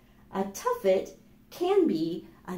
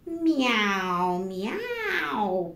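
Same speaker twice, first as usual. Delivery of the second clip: a playful meowing cat; 3 semitones higher, 3 dB louder than usual. Acted. Greeting the pizza cat at the door, playful meow. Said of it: "How do you say hello to a cat?".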